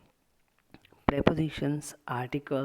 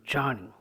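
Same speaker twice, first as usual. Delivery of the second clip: "journey" starting strong and falling away on "ney"; sound coming down. Shown as a demonstration. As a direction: let the pitch drop through "journey". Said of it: "The sound is coming down".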